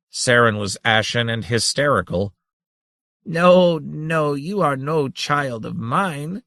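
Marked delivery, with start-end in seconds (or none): 3.2-6.4 chortling. Acted. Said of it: "chortled the ultimate grandmother".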